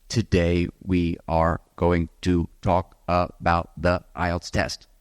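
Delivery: slow, flat monotone with no rise or fall on "Today we are going to talk about the ielts test"; flat robot intonation. Shown as a demonstration. Teacher showing students the wrong robotic way, slow flat monotone. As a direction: drone it like a robot, every word level. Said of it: "with flat intonation like a robot".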